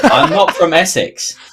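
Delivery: put-on slow, high, loud London accent, laughing through it; cracking up mid-protest in a London accent. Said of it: "thick London accent".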